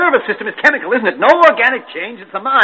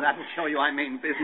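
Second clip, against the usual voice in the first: shaken threat; 4 semitones lower, 12 dB quieter than usual. Acted. After firing the gun.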